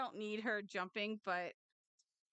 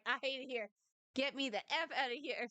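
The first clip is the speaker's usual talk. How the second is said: lightly voiced cat, a bit higher; voicing the cat; 4 semitones higher, faster than usual. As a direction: speak for a cat that wants out. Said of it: "She's like".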